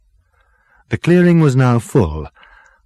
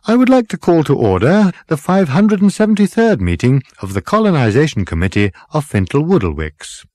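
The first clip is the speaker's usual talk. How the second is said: higher, louder opening, settling as it goes; raised voice; 7 semitones higher, 4 dB louder than usual. A narrator's reading. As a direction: call a meeting to order over a hubbub. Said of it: "the captain's voice rose above the hubbub".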